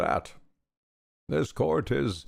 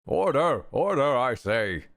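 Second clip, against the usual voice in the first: judge calling order. Acted. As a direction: bark for order in court.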